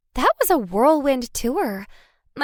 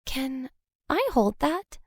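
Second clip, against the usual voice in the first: longing; 2 semitones higher, 6 dB quieter than usual. A narrator's reading. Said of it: "A sudden longing filled my chest".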